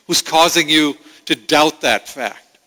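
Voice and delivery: a hint of a tender, rising appeal; lightly voiced Holy Spirit reassuring a believer; Spirit's voice. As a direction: voice the Spirit urging the child to look up. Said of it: "the Holy Spirit says".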